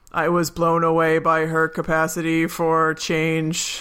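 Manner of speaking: slow flat deadpan read, lightly done. Retold or imitated. Retelling Michael's speech to the judge in light deadpan. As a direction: imitate the characters' deadpan delivery. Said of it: "they all talk in a deadpan like this".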